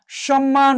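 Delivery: সম্মান with a full double m; clearly sounded ম. Shown as a demonstration. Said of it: "উচ্চারণ হয়েছে".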